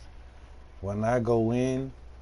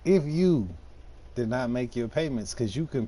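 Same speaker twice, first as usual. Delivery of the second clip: mock threat. Threatening payment speech.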